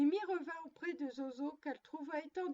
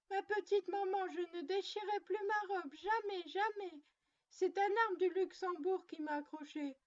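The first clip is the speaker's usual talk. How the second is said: put-on higher childlike voice, insisting jamais, jamais; little girl pleading; 4 semitones higher than usual. Zozo promises her mother never again, higher childlike pleading. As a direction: plead like a small child caught out.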